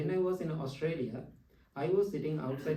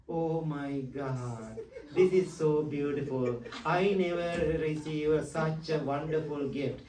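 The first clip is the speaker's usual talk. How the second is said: mock gushing delight. Monk acting out a gift receiver's gushing delight. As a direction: ham up being thrilled with the present. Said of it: "jumping up and down and doing all those things".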